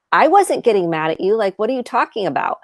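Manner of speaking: mildly indignant denial, quickening at the end; defensive. Acted. Mom disputing her daughter's complaint, mildly defensive. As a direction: brush off the accusation defensively. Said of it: "and defensiveness rather than acknowledgement".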